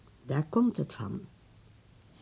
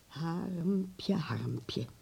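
soft whispered call; 6 dB quieter than usual. Acted. Grandmother calling Harm to her, whispered. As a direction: whisper his pet name twice, gently. Grandmother calls him softly.

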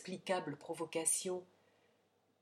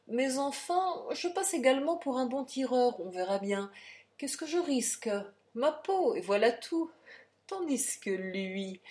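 a lightly voiced, louder, higher self-assured count; the count musing; 4 semitones higher, 4 dB louder than usual. The count weighs the duel while strolling, lightly voiced bravado. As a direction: talk yourself into the duel, confident.

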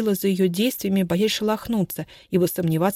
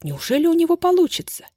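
breathless, high, tense question; hope against hope, pitched up; anxious hope; 10 semitones higher, 4 dB louder than usual. Acted. Anna watching Stepan's bluff, breathless high hope.

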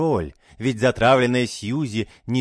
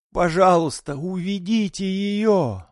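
pleading; 8 semitones higher than usual. A narrator's reading. Daughter begging the doctor to remove mother, pleading. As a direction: beg the doctor. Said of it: "с мольбой в глазах".

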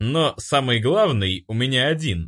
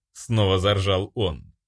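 ordinary delivery

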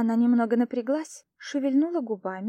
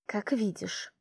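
irritated; 4 dB quieter, slower than usual. A narrator's reading. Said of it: "раздражённо ответила я".

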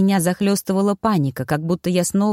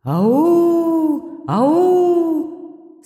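spirit calling; 10 semitones higher than usual. A narrator's reading. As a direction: call out like a forest spirit. Spirits call from all sides. (высокий громкий потусторонний зов)

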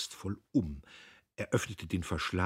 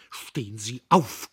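panting; 4 semitones higher, 8 dB louder than usual. A narrator's reading. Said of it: "keuchte Diederich".

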